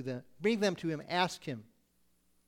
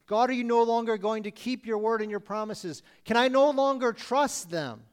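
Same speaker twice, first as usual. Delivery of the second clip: higher, louder anguished question; pleading with God; 4 semitones higher, 5 dB louder than usual. Acted. Preacher voicing the psalmist's doubt, anguished. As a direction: ask God as if betrayed. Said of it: "voicing Asaph's doubts to God".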